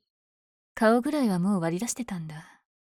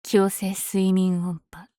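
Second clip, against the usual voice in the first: calling an attack; 3 dB louder, much slower than usual. Acted.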